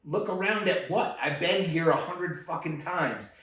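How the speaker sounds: listing each aisle with mounting irritation; retold exasperated rant. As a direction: rattle off the store sections like an annoyed guide. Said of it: "I'm like".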